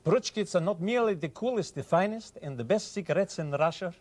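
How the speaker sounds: put-on high-pitched Russian-accented cigarette commercial. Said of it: "a Russian".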